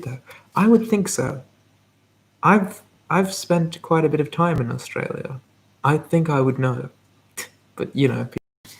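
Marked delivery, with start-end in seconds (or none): 0.5-6.9 higher-pitched Australian accent, drawn from time spent there. Shown as a demonstration. Streamer answering praise of their Australian accent, in Australian. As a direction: put on a confident Australian accent. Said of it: "Australian, uh, accent is pretty good".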